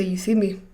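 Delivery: "You see me?" asked as a question. Retold or imitated. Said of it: "Like a question".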